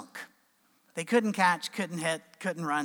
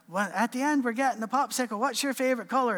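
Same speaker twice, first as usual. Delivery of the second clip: put-on higher-pitched kids calling across the field; mild mock yell, pitched up; 6 semitones higher, 4 dB louder than usual. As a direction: imitate kids shouting to each other. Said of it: "they start yelling to each other".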